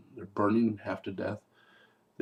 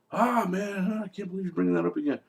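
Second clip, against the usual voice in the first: higher, fast put-upon whine; exasperated whine; 7 semitones higher than usual. Retold or imitated. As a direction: groan it out, fed up. Husband whining at wife's accusation.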